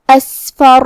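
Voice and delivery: اسفر with a breathy, airy س; whispered sin. Shown as a demonstration. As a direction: let air escape on the س of اسفر. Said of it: "سین کو ہمزے سے پڑھنا ہے".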